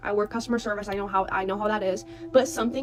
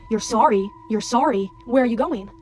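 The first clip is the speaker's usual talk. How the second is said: louder, mock-indignant questions; confrontational; 6 dB louder than usual. Older man gets in her face after she declines, confrontational. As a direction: imitate an affronted man challenging her.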